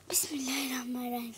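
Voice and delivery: unvoiced, hurried prayer; fast frightened whisper. Real, not acted. Girl whispers a quick prayer while scared, fast whisper.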